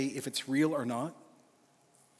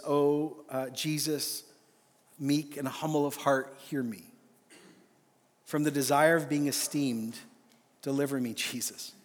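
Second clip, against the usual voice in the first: slow prayer reading. Real, not acted. Preacher reading the litany to the men's conference, slow and devout. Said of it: "I'm gonna read it slowly".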